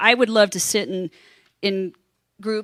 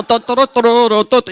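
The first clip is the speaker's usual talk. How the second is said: Nurse Ratchet; 5 dB louder than usual. Retold or imitated. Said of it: "Nurse Ratchet of the flight attendants".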